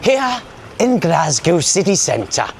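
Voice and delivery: slow, hushed nature-documentary narration, lightly done; a gentle mock wildlife-documentary voice; David Attenborough impression. Vlogger answers a heckler with a mild Attenborough narration. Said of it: "I'll do a David Attenborough impression".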